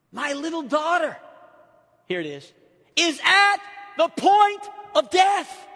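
loud and high, slowing on the point of death; impassioned shout. Acted. Preacher shouting the father's plea to the church, impassioned. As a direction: cry it out like a desperate father.

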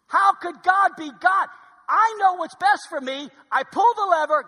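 loud, driving sermon shout; fired-up preaching. Acted. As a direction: preach it hard at the crowd. Preaching at full force.

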